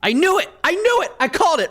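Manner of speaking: real excited whoop; triumphant shout. Real, not acted. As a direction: crow over the win. Gloating after winning roll.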